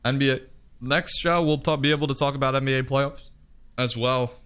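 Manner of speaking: talking through the hiccups; hiccuping between words. Real, not acted. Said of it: "I got the hiccups here at the end".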